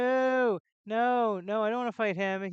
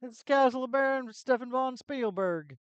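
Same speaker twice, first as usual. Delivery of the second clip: slow, higher, stiff reading; slow pompous character; 5 semitones higher, 3 dB louder than usual. Acted. Gamer mimics how the castle NPC talks. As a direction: mimic the NPC's stilted speech. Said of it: "That's the way he talks".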